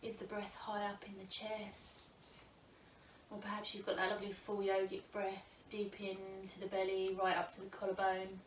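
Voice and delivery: calm, unhurried yoga teacher with long pauses; guided breath meditation. Acted. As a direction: guide them gently into noticing the breath.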